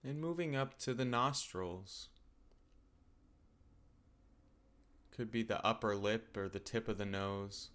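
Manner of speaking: calm, unhurried meditation guidance with long pauses; guided meditation. Acted. Teacher settling listeners into open awareness of the body, calm guided meditation.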